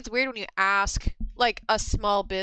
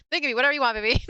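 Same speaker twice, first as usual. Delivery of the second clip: cheeky, teasing, a bit louder; flirty sales pitch; 3 semitones higher, 4 dB louder, much faster than usual. Retold or imitated. Teasing a customer at her booth, cheeky and flirty. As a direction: sell it with a wink.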